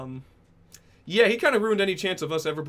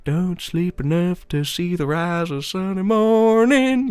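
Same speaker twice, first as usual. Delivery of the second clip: put-on old man voice; 3 semitones higher, 9 dB louder, slower than usual. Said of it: "I can kinda do the old man's voice".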